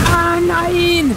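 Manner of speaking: high startled yelp; startled cry. Real, not acted. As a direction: yelp it in sudden alarm. Sudden danger in game.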